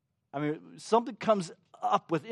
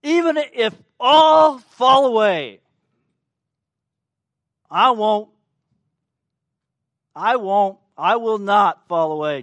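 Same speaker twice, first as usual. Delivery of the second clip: emphatic vow; 5 semitones higher, 12 dB louder than usual. Retold or imitated. Peter vowing loyalty to Jesus, loud and emphatic. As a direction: declare it loudly, refusing to be doubted. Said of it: "his emphatic words".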